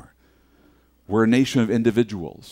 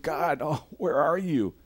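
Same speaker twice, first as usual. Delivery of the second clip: pleading cry; 5 semitones higher, 3 dB quieter, slower than usual. Retold or imitated. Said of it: "we think".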